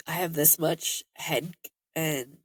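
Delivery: stuffed-up nose, congested; blocked nose. Real, not acted. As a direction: talk through a head cold. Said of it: "nasal congestion going on".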